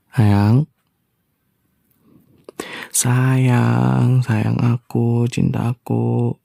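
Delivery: slow, tender pet names; tender coaxing. Acted. Husband sweet-talking his silent wife, slow and tender.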